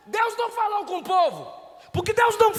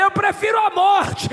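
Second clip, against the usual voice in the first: despairing cry; 4 semitones higher, 5 dB louder than usual. Acted.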